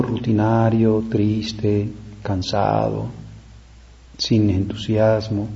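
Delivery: a touch of tired monotony; mock weary listlessness. Shown as a demonstration. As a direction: let it drag, as if tired. Lists dreary, tired manners to avoid.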